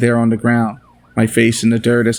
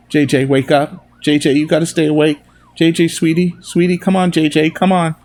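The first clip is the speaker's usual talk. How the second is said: rising, higher frantic begging; desperate pleading; 5 semitones higher than usual. Acted. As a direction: beg him to stay awake. Begging dying boy to stay.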